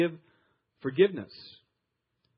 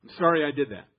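grudging apology; 5 dB louder, faster than usual. Shown as a demonstration. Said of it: "Not him. That doesn't cut it".

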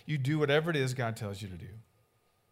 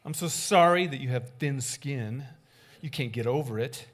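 sarcastic fake apology; 4 dB louder than usual. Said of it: "That's what you're really saying".

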